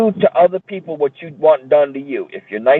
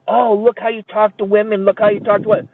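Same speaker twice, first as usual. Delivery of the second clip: mocking women; 5 semitones higher than usual. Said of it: "women attacking me".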